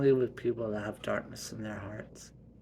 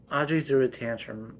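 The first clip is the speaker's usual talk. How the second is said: louder accusing; raised voice; 7 dB louder than usual. Acted. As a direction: call it out firmly. Mom accusing.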